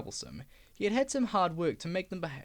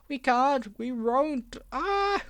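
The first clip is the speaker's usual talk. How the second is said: higher, louder cry ending in a shriek; screaming trucks; 7 semitones higher, 5 dB louder, much slower than usual. Acted. Trucks crying out as brakes break, shrieking.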